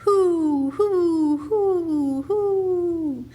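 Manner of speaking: loud, high hooting like a great horned owl; owl call. A narrator's reading. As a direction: hoot it out into the night woods. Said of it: "Then he called back".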